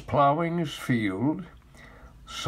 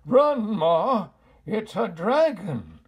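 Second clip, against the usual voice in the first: loud, high panicked shout; frantic yell; 5 semitones higher, 7 dB louder than usual. A narrator's reading. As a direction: yell a warning to Ma, terrified. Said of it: "yelled Pa".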